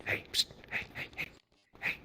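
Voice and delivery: hushed, repeated psst; furtive attention-getting. Retold or imitated. Stranger in line trying to get attention, hushed. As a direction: imitate someone softly pestering from behind. Man behind hisses for attention.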